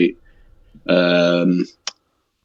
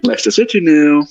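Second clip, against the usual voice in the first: high first team, falling to the final score; rolling results-reader inflection; football results announcer; 8 semitones higher than usual. Retold or imitated. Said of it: "the inflection on the voice".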